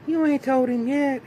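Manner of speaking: high-pitched hammed-up disbelief; mock shocked mama. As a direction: gasp it out like the scandalized mother. Mama surprised about the baby.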